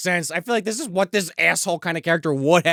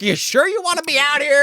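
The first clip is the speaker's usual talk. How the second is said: Ash; 10 semitones higher, 4 dB louder than usual. Retold or imitated. Acting out Ash's challenge.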